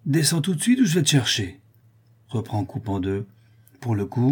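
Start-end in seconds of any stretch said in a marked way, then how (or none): 0.1-1.6 gruff threat. Acted. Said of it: "d'une grosse voix".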